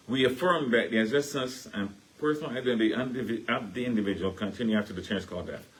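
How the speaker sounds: recited creed in a Caribbean accent. Shown as a demonstration. Reciting the church creed in a Caribbean accent. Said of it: "That's my Caribbean voice coming in".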